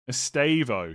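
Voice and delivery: "Estavo" said carefully as es-TAY-vo; slow imitated pronunciation. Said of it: "he's saying it really slow".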